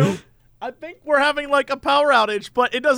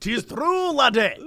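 mock Scottish accent; slower than usual. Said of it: "what the fuck accent is that?".

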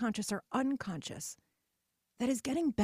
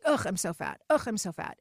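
a mild groaning "ugh" imitating the aunts; mock aunt groaning; 4 dB louder than usual. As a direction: lightly imitate aunts moaning over the turkey.

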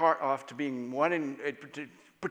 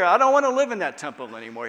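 emphatic declaration; 5 semitones higher, 10 dB louder, faster than usual. Retold or imitated. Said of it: "He makes it really clear".

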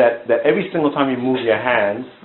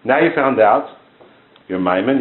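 ordinary talk, nothing marked

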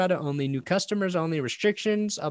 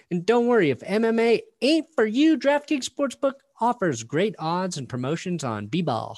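loud, punchy ad read voice; 4 dB louder than usual. Acted. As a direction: sell it like an energetic ad. Reads a sponsor ad.

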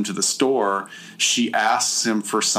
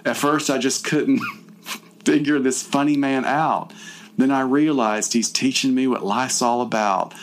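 a lightly dramatic poem recital; dramatic reading; 2 semitones higher than usual. Pretend. Reading her captor's poem aloud, mock dramatic. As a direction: recite the poem with mock grandeur, barely holding back laughs. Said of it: "I'm gonna do my dramatic reading".

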